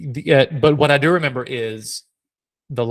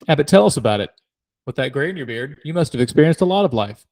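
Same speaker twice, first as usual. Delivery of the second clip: mock teasing; 2 semitones higher, faster than usual. Shown as a demonstration. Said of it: "make fun of my age".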